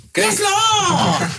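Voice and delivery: very high mock-ecstatic cry; a singer. Host mimicking the singer in bliss, high mock shriek. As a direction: squeal it out in hammed-up rapture. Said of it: "Dat is die zanger die klaarkomt".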